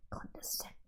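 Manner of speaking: high, whispered mock-prissy word; condescending. Teacher mocks the condescending shushing in a tiny whisper. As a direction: mimic her superior hush mockingly. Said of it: "Don't be so condescending, Lisa".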